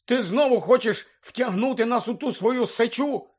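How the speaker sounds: high-pitched, exasperated question; indignant accusation. Acted. Ron accusing Hermione of dragging them in, indignant. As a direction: accuse her in mild outrage.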